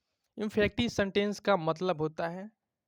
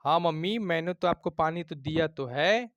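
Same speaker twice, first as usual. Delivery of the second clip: insisting to mother, hitting तो firmly; said with emphasis; 3 dB louder than usual. Shown as a demonstration. Child insists to mother the water was given, emphatic. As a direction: push the words हाँ mummy with force. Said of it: "आप जोर लगा के बोलेंगे".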